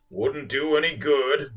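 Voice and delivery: slow, pitiful groaning whale. Acted. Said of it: "the whale groaned in a pitiful way".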